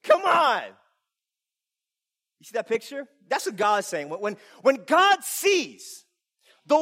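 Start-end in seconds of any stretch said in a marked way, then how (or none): 0.0-0.6 high, loud cooing at a little dog; louder, higher playful mockery; amused teasing. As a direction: tease it like a yapping puppy. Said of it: "you're like".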